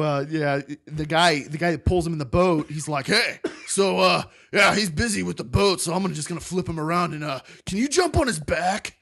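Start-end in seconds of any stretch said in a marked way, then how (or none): 3.1-8.9 gruff surfer guy. Retold or imitated. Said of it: "gruff surfer guy".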